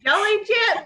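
high, hammed-up Southern accent; high Southern holler. Shown as a demonstration. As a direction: play up a Southerner, consonants dropped. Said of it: "especially Southern, Southerners, we're, like, constant skipping".

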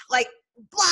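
spluttered explosion noise, then a blurted blah; playful vocal explosion; imitated burst. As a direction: burst out with a splashy sound effect.

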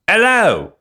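loud, very high mock Cockney; Cockney accent. Shown as a demonstration. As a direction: holler a hammed-up Cockney greeting. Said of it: "keep on doing the accent".

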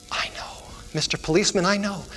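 softly voiced little girl, lightly acted; a hint of a hushed child; hushed realization. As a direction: say it softly as a dawning discovery. Girl's tearful realization, acted softly.

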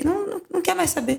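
high, fast, dismissive mimicry of the husband; mock husband. Wife mimicking her husband ignoring messages, fast high mockery. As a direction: toss it off as him brushing her away.

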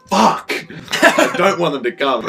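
mock scream. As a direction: shriek in mock panic. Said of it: "I screamed".

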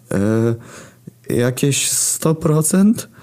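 high, slow, scared answer; frightened. A narrator's reading. Narrator answers Athena in fright. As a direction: stammer it out in fear. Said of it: "odpowiedziałem przerażony".

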